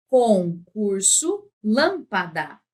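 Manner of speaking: "Concurso, lâmpada" em sílabas separadas; sílaba por sílaba. Shown as a demonstration. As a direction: escande devagar "Concurso, lâmpada". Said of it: "para separar sílabas". ("Concurso, lâmpada" dito pausadamente)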